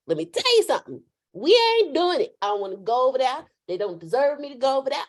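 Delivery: mock-defiant pushback at God; stubborn protest. Playing herself arguing with God.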